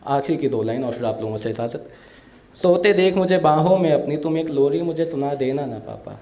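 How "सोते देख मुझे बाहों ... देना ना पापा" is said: emotional recital of a daughter's farewell poem. Acted. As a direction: recite it with feeling, like a stage poet. (भावुक कविता पाठ)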